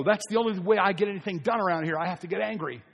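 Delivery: a touch of a heated, defensive parent; mock angry excuse. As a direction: play the irritated justifier, pushed up.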